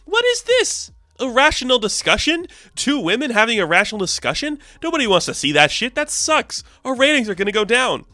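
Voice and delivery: high, sneering villain boss rant; a cartoon TV-exec villain hamming it up; evil director. Evil director voiced in recap.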